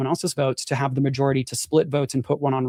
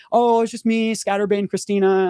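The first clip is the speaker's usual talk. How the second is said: laughing it off; 6 semitones higher than usual. Retold or imitated. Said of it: "she started laughing it off".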